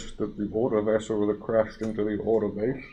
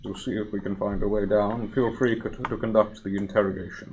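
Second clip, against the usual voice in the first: a lightly voiced cold machine, slightly louder; robot construct; 5 dB louder than usual. Solomon robot addresses the fleshy party, coldly. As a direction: speak as a detached machine.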